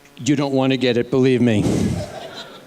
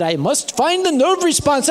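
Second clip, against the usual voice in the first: lightly voiced earnest foreign doctor; a hint of a determined doctor, higher; imitating the doctor insisting calmly; 9 semitones higher than usual. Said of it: "He said".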